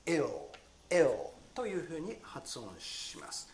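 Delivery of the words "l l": "L" held with the tongue on the ridge; "L" said as a clear lateral, no vowel; L sound demo. Shown as a demonstration. Teacher isolating the final L of drill. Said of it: "上の歯茎にくっつけながら".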